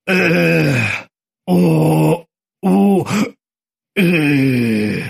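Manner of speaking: stiff, strained vowel groans; frozen groaning syllables. Acted. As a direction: squeeze out sounds through a frozen mouth. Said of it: "выдавил он из себя".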